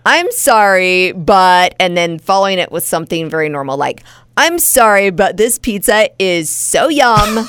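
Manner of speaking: put-on lightly done Valley Girl accent. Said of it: "your dumb little Valley Girl accent".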